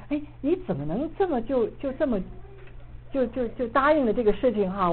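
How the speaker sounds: retold angry protest. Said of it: "我就特别的生气". (气愤地质问，声调偏高)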